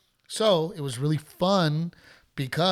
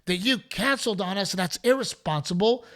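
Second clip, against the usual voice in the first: mock heckler woman; 5 semitones higher than usual. Heckler woman complaining to the comic, high mock whine. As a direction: whine out the grievance. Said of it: "She goes".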